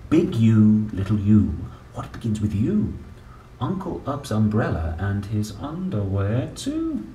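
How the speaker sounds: lively sing-song picture-book reading; reading to children. Acted. Parent reading an ABC book to a child, playful sing-song. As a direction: read it out like a bedtime book for a small child.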